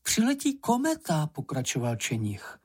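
high, pressing little creature voice; high hurried warning; high urgent Sniff voice. Acted. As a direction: warn the kitten, urgent and high.

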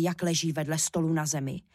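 ordinary delivery

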